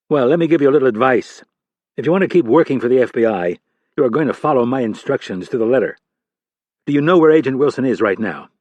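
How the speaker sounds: a senior director grilling a junior agent; stern FBI boss. Acted.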